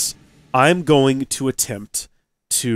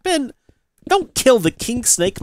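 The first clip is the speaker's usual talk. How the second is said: higher, slow urgent plea; 9 semitones higher, slower than usual. Retold or imitated. Owner pleads with dog not to kill the snake, urgent. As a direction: beg the dog to let go.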